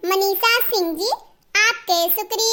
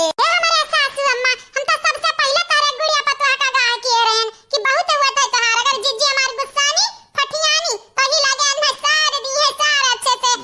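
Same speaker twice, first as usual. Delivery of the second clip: lightly voiced, higher, quick village woman; warning daughter-in-law; 5 semitones higher, much faster than usual. Daughter-in-law warning her mother-in-law, lightly taunting. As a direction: rattle off an I-told-you-so.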